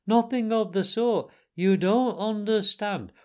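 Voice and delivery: high, loud, insistent contradiction; shouted argument. A narrator's reading. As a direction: argue over the other speaker. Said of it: "shouted the Mole".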